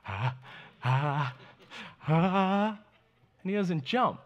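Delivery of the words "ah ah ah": imitated child's hesitant "ah"s, rising; hesitant gasps. Son hesitating before jumping, imitated nervous gasps. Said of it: "And he'll be".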